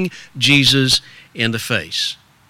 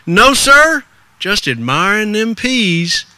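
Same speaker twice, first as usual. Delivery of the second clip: put-on high, polite boy's reply; lightly played country youngster; ragged little boy; 5 semitones higher than usual. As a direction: answer the grown-up like a respectful lad. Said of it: "that ragged little boy".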